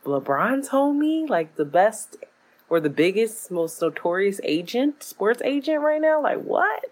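can't believe who she's dating; incredulous. Retold or imitated. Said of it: "and I'm like".

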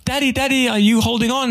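put-on high, worried little-kid call; a nervous kid checking that dad still holds the bike; anxious child. Kid on a bike calling back to dad, high and anxious. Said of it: "and you're like".

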